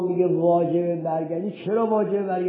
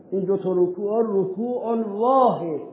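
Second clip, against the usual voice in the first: slow quoting of scholars. Retold or imitated.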